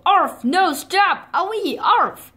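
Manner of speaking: high yelps; mock yelping wolf. Beaten wolf begging the foxes, high yelps.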